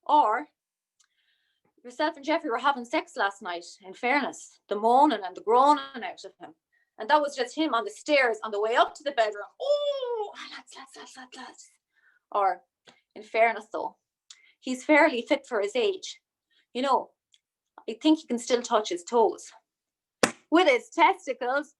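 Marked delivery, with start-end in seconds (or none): 1.8-11.7 rowdy jeering pub banter; lad voice. Retold or imitated. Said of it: "I'm doing my lad voice now". 13.1-21.7 lad voice. Retold or imitated. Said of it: "I'm doing my lad voice now".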